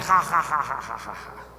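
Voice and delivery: long demonic cackle trailing downward; mocking demon laughter; demon's evil laugh. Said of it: "o demônio respondeu". (gargalhada maligna de demônio)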